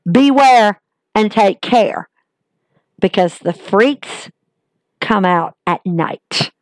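a slow, sinister warning that sinks away; ominous warning. Retold or imitated. Wrestler on screen warns his rival, slow and menacing. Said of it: "He basically looks and goes".

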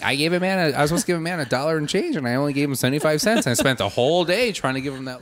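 lightly imitated Flanders. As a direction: recount it like a fussy do-gooder. Retelling Flanders' earnest complaint.

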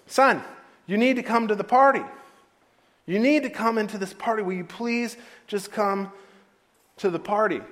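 pleading father. Acted. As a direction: plead with a stubborn son, starting loud and easing off. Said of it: "came out and pleaded with him".

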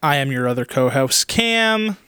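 slipping into a slight Australian accent; a hint of Australian on the co-host intro; weird Australian accent. Real, not acted. Introducing himself on the podcast, faint Australian accent. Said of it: "I kinda had a weird Australian accent there".

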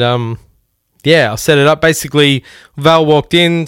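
ordinary talk

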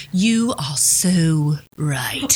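slow whispered agreement. Real, not acted. Host agreeing with cohost, slow whisper. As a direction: whisper it like a confession.

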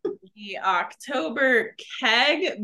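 a cheery pub host in a bad British accent; terrible British accent. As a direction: greet the listeners in a mock British accent. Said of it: "Be ready for some terrible British accents from me".

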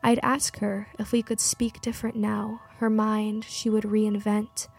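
measured poetry reading, pausing between phrases; poem recital. Acted. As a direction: recite it evenly, line by line. Poem read aloud to music.

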